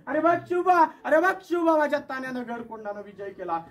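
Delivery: exultant loud call of victory; joyful proud shout. Acted. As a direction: call out to Shivba in pride. Jijamata rejoices at the victory.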